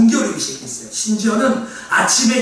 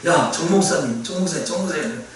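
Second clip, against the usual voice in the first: calling father; 7 semitones lower, 4 dB quieter than usual. Retold or imitated. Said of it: "저희 아버님이 와서 그래요".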